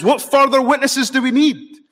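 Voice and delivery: loud, high-pitched, theatrical outrage; a grand show of being scandalised; melodramatic high priest. Acted. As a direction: declaim it high and loud, hammed-up accusation. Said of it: "another melodramatic display".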